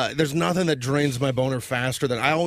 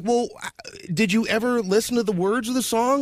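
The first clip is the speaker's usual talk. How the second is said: exasperated retort; 3 semitones higher than usual. Retold or imitated. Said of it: "And I'm like".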